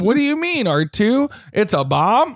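a hint of earnest young Luke; Luke Skywalker voice. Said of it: "Because it's like".

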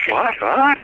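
high, shocked double what; imitating a panicked fiancée; freaked out. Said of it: "Ingrid freaked".

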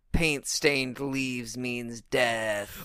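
mock ominous. Explaining the film's zoom on Jackie, slow ominous voice. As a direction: drag it out with mock gravity. Mock-solemn reading of a film shot.

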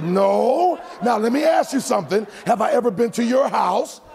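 loud, high retold protest; hammed-up emphatic denial; flustered denial. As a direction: protest publicly so everyone hears.

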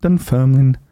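reading scores like an eighties results announcer; lightly voiced results announcer; football results reader. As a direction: read it like the Saturday results. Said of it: "like I said, it's like".

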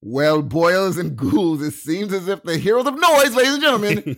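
creepy TV host intro; horror host. Pretend. Spooky host announcement to audience.

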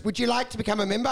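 fast, rote sales pitch; scripted salesman. Retold or imitated. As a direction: rattle it off like a script. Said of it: "He goes".

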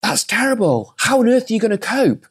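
high, pitying busybody voice, well above his own; mock-pitying village gossip; village folk lament. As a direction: wail it like fussing villagers. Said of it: "The village folk said".

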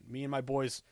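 ordinary talk, nothing marked

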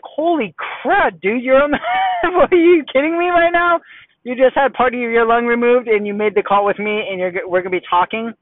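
high, loud, incredulous outburst with a laugh; stunned disbelief. Retold or imitated. Coach reacting to a student calling right after lung surgery, incredulous. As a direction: blurt it out like you can't believe your ears.

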